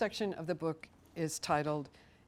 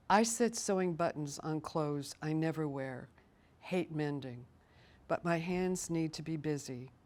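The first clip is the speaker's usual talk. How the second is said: measured poetry reading with pauses between phrases; poem reading. Acted. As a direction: read your poem line by line, letting each phrase settle. Reads her poem aloud.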